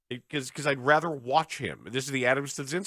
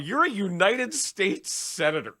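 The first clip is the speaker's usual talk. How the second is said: imitating Bernie Sanders; 6 semitones higher, slower than usual. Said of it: "Bernie said".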